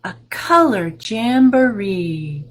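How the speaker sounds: put-on slow, lilting read-aloud for kids; storybook reading. A narrator's reading. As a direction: read it like a picture book to little ones. Reading picture book aloud.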